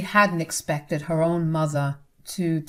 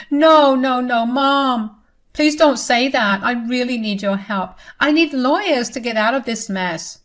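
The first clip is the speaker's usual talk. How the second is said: higher, panicked begging; desperate pleading daughter; 5 semitones higher, 4 dB louder than usual. Acted. Daughter begs her mother not to cut her off, high and desperate.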